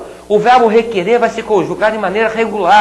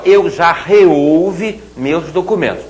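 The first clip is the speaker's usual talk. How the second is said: slow correct demo; much slower than usual. Shown as a demonstration. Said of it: "teacher demonstrates correct form".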